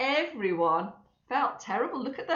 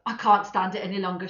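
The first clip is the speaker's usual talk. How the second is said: desperate; 6 dB louder, faster than usual. Acted. Craving cake.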